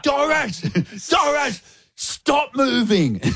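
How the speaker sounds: high urgent shout with a laugh breaking in; urgent call. Retold or imitated. Shouting to Doris to stop her walker, laughing. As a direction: stop her before the wheel spins again.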